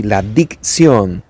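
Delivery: "la dicción" stretched slowly, each syllable of "dicción" stressed and clear; slow emphatic word. Shown as a demonstration. Diction teacher stressing the key term to students, slow and deliberate. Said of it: "Dicción es pronunciar bien las palabras".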